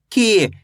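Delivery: की with a long, stretched ee; drawn-out vowel. Shown as a demonstration. Teacher showing pupils the long vowel, की drawn out. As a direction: hold the ee in की. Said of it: "खींच के पढ़ा जाता है".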